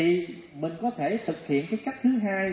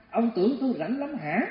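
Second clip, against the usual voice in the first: escalating retort; 5 semitones higher than usual. Retold or imitated. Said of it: "gia tăng ra".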